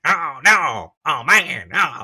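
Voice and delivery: high, exaggerated comic wail; Dave Chappelle. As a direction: stretch it into a high-pitched impersonation. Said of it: "Dave Chappelle impersonation, I just wanna be like".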